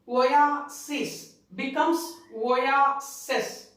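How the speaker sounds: "oasis" first said oasis, then said oases with the last syllable as "seez"; plural sound shown. Shown as a demonstration. Teacher shows plural ending, slowly ending second "oasis" as "seez". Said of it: "becomes S E S".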